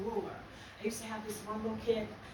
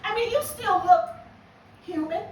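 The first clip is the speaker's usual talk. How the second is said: sly compliment; 6 semitones higher, 6 dB louder than usual. Retold or imitated. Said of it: "I said".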